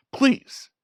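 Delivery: a high, drawn-out pleading please; mock pleading. Friend coaxing him into a cocktail, mock pleading. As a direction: beg like a whiny friend wanting a drinking buddy. Sean begging him to drink.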